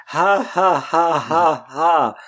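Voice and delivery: light villain's ha-ha laugh; a hint of evil chuckling; bad guy laugh. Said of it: "Do a bad guy laugh".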